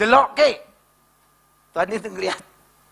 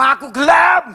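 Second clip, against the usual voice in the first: loud, higher shouted line; shouted quote; 5 semitones higher, 4 dB louder, slower than usual. Retold or imitated. Preacher acting a shout to the congregation. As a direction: call it out loud and high.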